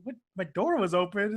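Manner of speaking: questioning, rising at the end; incredulous echo. Retold or imitated. Washu repeats Mihoshi's explanation back, incredulous echo. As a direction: throw it back as a disbelieving question.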